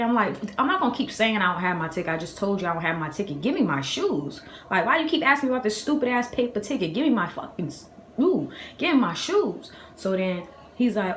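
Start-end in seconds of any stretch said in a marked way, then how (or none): 0.6-9.7 retold demand with stretched, higher bursts; exasperated retort. Customer demands her shoes from the counter worker, exasperated. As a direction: act out being fed up with the clerk.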